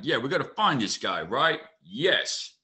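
lightly voiced detective impression; a hint of Pitt as detective; Brad Pitt. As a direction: play the detective, lightly imitated. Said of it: "You got a good Brad Pitt".

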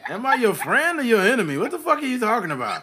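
loud, high-pitched comic protest; bewildered outburst, laughter breaking in; mock indignation. Mock confused customer protests.

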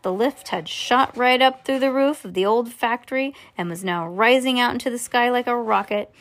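usual speaking voice

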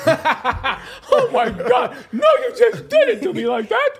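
put-on high, laughing shocked girlfriend; high-pitched imitation of a white girlfriend, shocked; mock girlfriend. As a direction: squeal it like an offended girlfriend, laughing. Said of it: "She'll be like".

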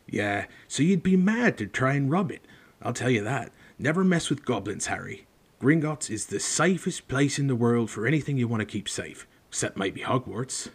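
lightly voiced hearty giant; a hint of rough gamekeeper. Reader voices Hagrid.

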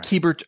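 Keibert said as KEE-bert; KEE as in key. Shown as a demonstration. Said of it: "there's a key in there".

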